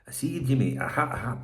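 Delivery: lightly done mock Scottish; put-on Scottish accent. Taking the piss out of Glasgow, light Scottish accent. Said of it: "I'm trying to do a Scottish accent".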